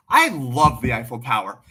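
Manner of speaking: the enthusiastic redo after underselling; upsold enthusiasm. Shown as a demonstration. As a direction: sell it like you mean it. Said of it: "Let me upsell that a little more".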